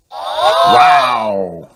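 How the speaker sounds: a big gasp of wonder; amazed wow. Acted. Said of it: "says everyone".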